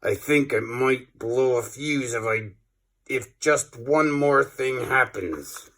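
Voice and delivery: slow, quietly seething threat; simmer, about to blow a fuse. Acted. Professor warns the class, slowly seething. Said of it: "the furious professor said through clenched teeth".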